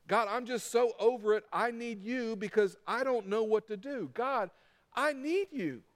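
acted frustrated plea to God; heart-wide-open prayer. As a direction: pour it out to God, earnest and fed up. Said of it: "It is heart wide open".

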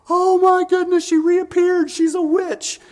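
loud, very high mock amazement; hammed-up baby's shrieking astonishment; astonished baby. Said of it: "it's like".

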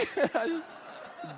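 high helpless laugh; real burst of laughter. Real, not acted. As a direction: laugh out loud at the memory. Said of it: "Dying laughing".

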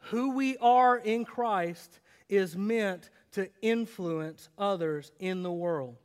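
slow, weighted "are", easy to write down; slow takeaway. Shown as a demonstration. Pastor giving the main point to note down. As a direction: deliver it slowly like dictation. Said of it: "Write this down".

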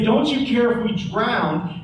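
an accusing question, not a real one; accusation. Retold or imitated. Disciples accusing Jesus in the storm, bitter accusation. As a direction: throw it at him as a charge. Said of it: "it's not a question, it's an accusation".

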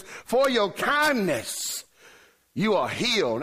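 drawn-out, high mock-solemn proclamation; solemn healer. Jesus laying hands on the wheelchair man, mock-solemn proclamation. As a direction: pronounce the healing grandly, stretching the words.

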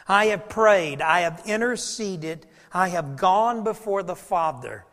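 loud, ringing declaration as Jesus; voicing Jesus proclaiming. Jesus declaring himself Peter's mediator, loud proclaiming. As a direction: proclaim it boldly for Simon. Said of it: "You know what he's saying?".

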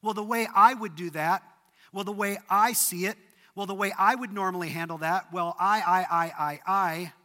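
mock voice of someone who leans on their own view; self-assured mock voice. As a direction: play the person trusting only themselves. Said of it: "we lean into the way that we see the world".

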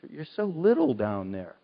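high, mock far-off voice; mocking distant God. Preacher mocking a distant God, high mock voice. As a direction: play a God too far away to hear. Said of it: "God is saying".

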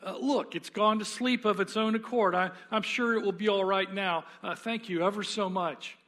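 a jittery ghost brushing off the offer; nervous ghost. Acted. Ghost nervously excusing himself.

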